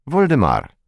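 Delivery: throaty French r in «Вольдемар»; burred French r. Acted. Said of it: "сказал он великолепно картавя".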